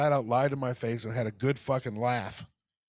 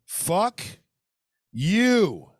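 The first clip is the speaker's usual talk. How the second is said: higher and louder on the second word, a spat-out curse; angry curse; 6 semitones higher, 7 dB louder than usual. Real, not acted. Reacting to the eight-to-twelve-day wait, angry. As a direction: fling it at the seller. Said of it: "pissed me off even more".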